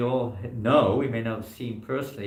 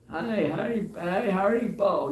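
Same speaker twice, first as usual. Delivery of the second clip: high, drawn-out mock hello; imitating old-timers' greeting; 9 semitones higher, 3 dB louder, slower than usual. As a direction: hail them like a street regular, pitched up. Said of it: "that sort of people".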